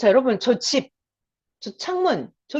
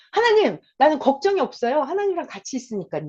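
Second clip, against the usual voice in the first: confident prayer; 2 semitones higher than usual. Shown as a demonstration. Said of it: "이렇게".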